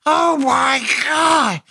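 high, slow hammed-up beaver voice. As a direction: squeal it out slow as a cartoon beaver. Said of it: "Do you like my Beaver voice?".

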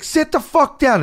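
high, drawn-out mock order; imitated mean heckler. Heckler to standing dancer, imitated mean yell. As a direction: imitate a nasty heckler, slowly. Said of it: "when they started getting mean".

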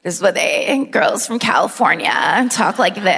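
put-on demonstrating California girl vocal fry. Shown as a demonstration. Imitating girls from California, in vocal fry. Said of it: "she talked like this for real".

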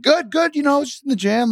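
high, breezy fake-casual reply; playing it cool. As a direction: act unbothered, keep it light. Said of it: "trying to play it cool".

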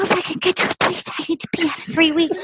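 imitated little-girl voice, hurried; mock her like a tiny baby bird. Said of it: "like a little baby girl, a little baby bird".

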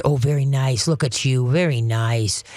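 soothing murmured praise; calm praise. Shown as a demonstration. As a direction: praise him gently. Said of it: "be what you want, which is the air calm".

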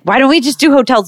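a touch of worry, imitating mom; fretful mom. Mom questions daughter's booking, mildly fretful. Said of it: "kind of freaking out about me".

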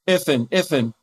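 lightly voiced little girl apologizing; a hint of a small child saying sorry; mild toddler lisp, slow. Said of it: "she's like".

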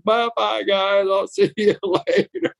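mock a crying man waving like a baby; weepy wrestler waving the bus off in a baby voice; little baby voice. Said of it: "waving like a little baby".

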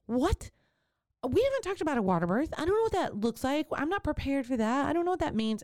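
high, fast panicked questions; freaked out. Retold or imitated. To her midwife, a high rushed freak-out. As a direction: blurt it out in a rush of panic. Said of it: "I freaked out. I was like".

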